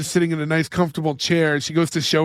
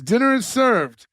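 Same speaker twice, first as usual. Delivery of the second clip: slow, higher, grand butler announcement; stately butler; 6 semitones higher than usual. Retold or imitated. Recapping the show, the butler announces dinner, mock formal. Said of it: "the butler comes out and he goes".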